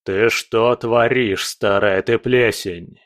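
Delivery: slow menacing lord; menacing demand, drawn out slowly; dark lord. Acted. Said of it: "Замогильный голос".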